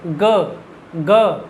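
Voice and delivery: ग drawn out slowly and gently; slow ga demo. Shown as a demonstration. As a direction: say ग lightly and slowly. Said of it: "उसको हल्का सा धीरे करके बोलना".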